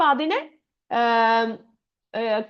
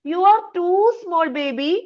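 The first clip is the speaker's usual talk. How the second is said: mother's voice; 6 semitones higher, much slower than usual. Acted.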